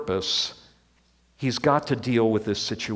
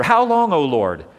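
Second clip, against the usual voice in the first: a desperate cry to heaven, louder than the first; sufferer's cry; 3 dB louder than usual. Retold or imitated. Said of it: "That's the question of the sufferer".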